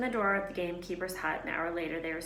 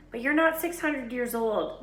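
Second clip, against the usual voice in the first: higher, louder mock retort; teasing boy; 6 semitones higher, 6 dB louder than usual. A narrator's reading. Ron teasing Hermione about Flamel's age. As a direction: poke fun at her.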